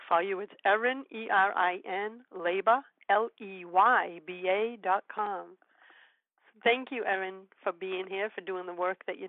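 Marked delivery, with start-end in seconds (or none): 1.1-5.6 slow spelling. Shown as a demonstration. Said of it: "I'm gonna spell Erin's U R L".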